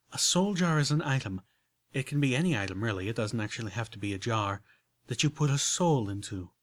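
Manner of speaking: a hint of genteel unicorn, explaining; lightly voiced refined lady. Rarity explaining soul jars to Applejack, lightly refined voice. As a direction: lay it out carefully, ladylike.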